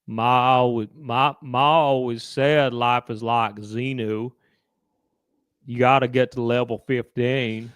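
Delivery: slow, drawn-out mock Gump drawl; lightly put-on Gump voice; Forrest Gump imitation. Doing Forrest Gump for his friend, slow and drawn.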